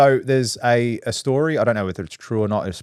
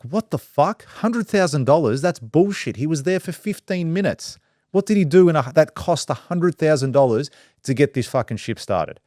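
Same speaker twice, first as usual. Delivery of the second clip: outraged captain; 6 semitones higher than usual. Retold or imitated. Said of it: "The captain's like".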